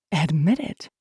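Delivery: measured demand at ordinary pitch; firm demand. A narrator's reading. Woman presses her lover to confess, firm. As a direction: repeat it steadily with a rising end.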